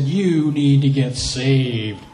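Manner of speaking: big man ordering gang members, loud and slow; stern command. Retold or imitated. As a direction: lay down the law to each gang member. Converted gang man ordering others.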